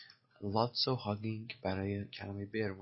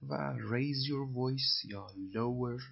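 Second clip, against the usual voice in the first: slow dictation; 3 semitones higher, much slower than usual. Shown as a demonstration. Teacher reads phrase very slowly.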